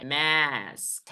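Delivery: मास्क very slow and soft, vowel held; word demo. Shown as a demonstration. Teacher modelling मास्क slowly for the class. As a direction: stretch मास्क gently and slowly. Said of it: "एक बार मैं जल्दी से बोल रहा हूँ".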